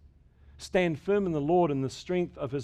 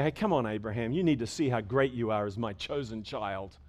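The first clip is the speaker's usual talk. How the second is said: mock reassuring God; 5 semitones lower, 3 dB quieter than usual. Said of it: "and say".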